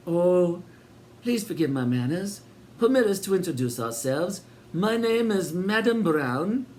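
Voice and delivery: high, sugary welcoming landlady voice; sinister hostess. A narrator's reading. Landlady welcoming Sid and Eric, high and sweet. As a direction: greet them grandly, a touch too sweet. Twin introduces herself grandly.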